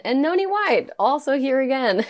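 high, excited callback; mock excitement. Same writer shows up again, playful excitement. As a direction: greet the returning writer gleefully.

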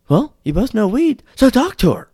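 high, loud mock urging; pushy friend. Friend pushing him to talk to her, loud high urging. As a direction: shove him toward her, loudly. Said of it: "looks at me and says".

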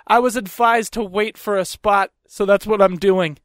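matter-of-fact retold comeback; smug retort. Man at car window answers woman, smug and matter-of-fact. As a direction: throw her rule back at her, deadpan. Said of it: "this is where I was a cunt".

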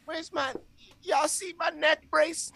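high, slow put-on voice of the hurt girl; imitating injured girl. Injured girl asking after her neck brace, high mock voice. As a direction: play her plaintively, pitched well up. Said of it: "then she goes".

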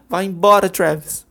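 high, slow, loud screaming; furious scream through the door; furious shout. Acted. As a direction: yell him away. Júlia screams at Travis.

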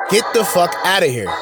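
loud, scornful brush-off; dismissive yell. Real, not acted. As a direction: wave them away loudly.

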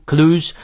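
"clues" with a drawn-out oo; long oo. Shown as a demonstration. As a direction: hold the long vowel in "clues". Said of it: "长乌". (“clues”念足长音乌)

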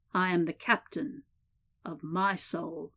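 final line slowing and fading; poem recitation. A narrator's reading. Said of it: "The warden cleared his throat and began".

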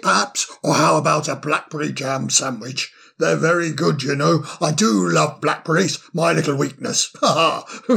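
put-on cheery, fussy old owl voice; bustling, delighted host; jolly old owl. Solly offers food.

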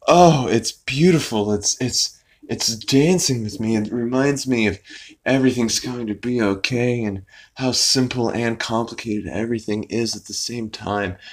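dreamy, tender parody monologue; mock wonder. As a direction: imitate someone moved by simple beauty. Peter marvels at floating plastic bag.

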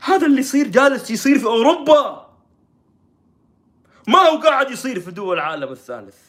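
hammed-up shocked lament; mock tearful dismay. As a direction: imitate a distraught reporter crying out. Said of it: "يعني هي جالسة تبكي".

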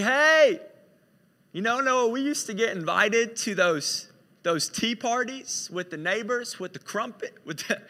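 put-on British accent for a tea-party reminiscence. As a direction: put on a playful British lilt. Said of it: "I don't know why Noah's British right now".

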